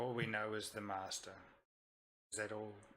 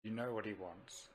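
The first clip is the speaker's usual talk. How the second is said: pressing; 2 semitones lower, 5 dB quieter than usual. Acted. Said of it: "press the matter a little bit and say".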